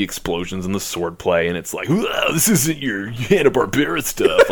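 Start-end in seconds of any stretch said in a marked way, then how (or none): 1.9-4.5 announcer voice. Pretend. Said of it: "That is a solid announcer voice".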